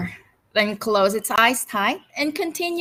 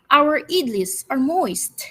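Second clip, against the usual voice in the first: beaming host; 4 semitones higher, 4 dB louder than usual. Acted. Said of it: "beamed the Grand Maharaja".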